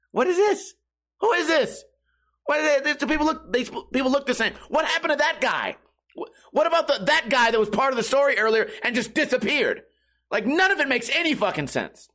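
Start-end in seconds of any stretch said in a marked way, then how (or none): 0.1-9.8 high, bewildered questions tumbling out; baffled viewer. Retold or imitated. Mocking the confused audience, high and baffled. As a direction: play a lost moviegoer who can't follow anything. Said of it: "you're going".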